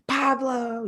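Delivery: booming hello from a big guy; big happy greeting. Retold or imitated. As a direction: greet him like a long-lost friend. Big client greeting him warmly.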